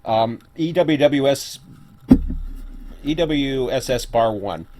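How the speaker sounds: talking while chewing lunch; words round a bite of food; mouth full. Real, not acted. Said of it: "I'm gonna be talking with my mouth full".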